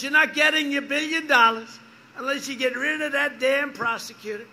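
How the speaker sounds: imitating a pushy vice president; mock loud ultimatum. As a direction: bark it like a boss laying down terms. Biden's threat acted out in rally.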